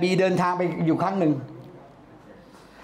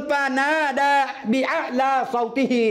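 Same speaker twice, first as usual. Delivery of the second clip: high voice; 4 semitones higher than usual. Shown as a demonstration. Preacher shows the phrase meaning he called out with raised voice. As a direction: lift ฟานาดาบิอะลาซอติฮี high and stretch it. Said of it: "ใช้เสียงสูงเลย".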